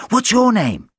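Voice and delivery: a bright puppy greeting; little dog voice. Acted. Dog character asks.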